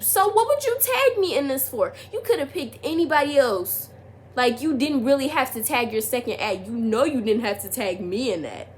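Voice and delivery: high, exasperated pleading with him; reenacting confronting him, loud and high; exasperated questioning. Retold confrontation with the boy, high and indignant.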